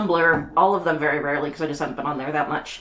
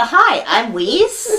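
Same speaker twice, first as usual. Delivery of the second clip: man doing a woman's voice, slow and higher; fake girl voice; 5 semitones higher, 4 dB louder, much slower than usual. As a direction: put on a hammy girly voice. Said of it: "just give him the girl voice".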